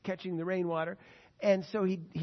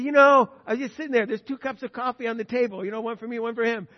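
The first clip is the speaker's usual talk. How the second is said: louder, higher acted protest; insistent explaining; 4 semitones higher, 11 dB louder than usual. Driver reminds the diner man of the two coffees, insistent. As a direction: retell it as a man insisting on the obvious.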